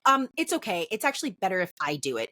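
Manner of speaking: imitated firm tone. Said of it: "real firm".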